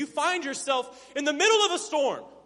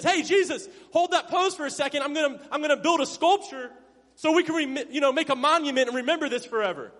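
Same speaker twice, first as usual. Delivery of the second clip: higher, louder comic enthusiasm; eager blurting; 4 semitones higher, 5 dB louder than usual. Acted. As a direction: burst in like an overeager disciple, played for laughs. Peter blurts out during sacred moment.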